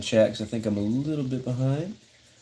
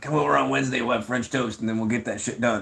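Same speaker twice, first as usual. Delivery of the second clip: imitating his buddy. Buddy inviting him over on Wednesday, lightly imitated voice. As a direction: slip into a hint of the buddy's voice. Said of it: "that's what his voice sounds like".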